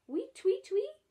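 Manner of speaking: high, loud birdlike chirping; starling chirp. Retold or imitated. Barbara imitating the starling's call, high bright chirps. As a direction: chirp it like a little bird. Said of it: "the starling says".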